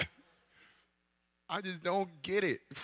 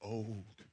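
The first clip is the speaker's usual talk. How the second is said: put-on "old" drawn out, low and hushed; emphasis on old; 5 semitones lower, 8 dB quieter than usual. Shown as a demonstration. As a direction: let "old" sink low and long, on its own. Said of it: "Emphasis on".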